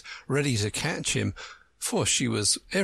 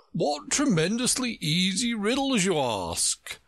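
growl; 10 semitones higher than usual. A narrator's reading. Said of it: "growled out".

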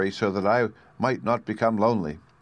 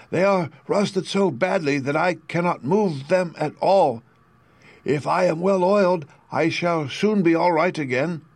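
creaky Tin Woodman; 8 semitones higher than usual. A narrator's reading. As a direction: creak out the plea like a stiff tin man.

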